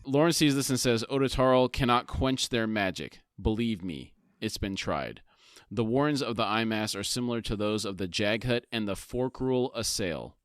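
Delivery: measured read-aloud summary; story narration. A narrator's reading. Co-host reads the book summary to his partner, story narration. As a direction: narrate the scene with deliberate phrasing.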